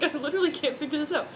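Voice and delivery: mocking the baffled boyfriend; mock Edward voice. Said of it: "He's like".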